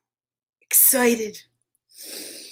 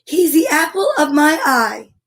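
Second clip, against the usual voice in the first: lightly voiced fond mother pig; fond Mrs. Pig; 2 semitones higher, 3 dB louder than usual. Shown as a demonstration. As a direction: dote on him without the accent. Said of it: "I'll do it like this".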